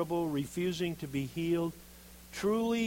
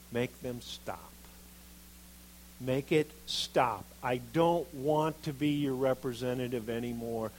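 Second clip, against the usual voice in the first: whining. Acted. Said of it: "he was whining and complaining".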